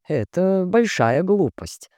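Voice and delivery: slow, measured and restrained. Acted. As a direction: hold back, calm remark. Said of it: "сдержанно заметил детектив".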